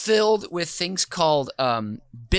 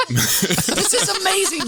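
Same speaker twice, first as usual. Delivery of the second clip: slowed, pitched-up words through real laughter; laughing; 13 semitones higher than usual. Real, not acted. Host still laughing at the cops part, amused. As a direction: let the laugh take over the words.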